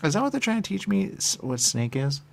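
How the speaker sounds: high, loud and fast astonished question; shocked rising burst; incredulous. Real, not acted. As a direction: blurt it out in disbelief.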